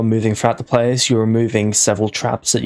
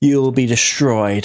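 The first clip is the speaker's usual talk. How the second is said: anime villain voice. Acted. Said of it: "why are you talking like an anime villain".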